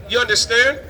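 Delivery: ordinary talk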